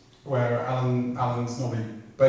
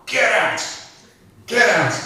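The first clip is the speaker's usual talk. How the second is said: shouted order; 8 semitones higher, 10 dB louder, slower than usual. Retold or imitated. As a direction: yell it out, much higher and louder.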